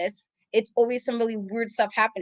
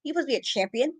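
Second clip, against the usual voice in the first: exasperated scolding; 5 semitones higher than usual. Retold or imitated. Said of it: "I'm like".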